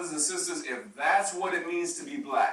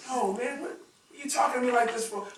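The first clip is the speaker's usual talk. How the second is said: offended brother; 7 semitones higher, 4 dB quieter than usual. Retold or imitated.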